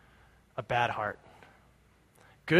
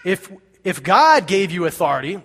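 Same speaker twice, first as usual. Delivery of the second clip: high-pitched challenge; acted outraged questioning; indignant demand; 4 semitones higher, 7 dB louder than usual. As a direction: demand an answer, pitch leaping up. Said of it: "the Jewish leaders demanded".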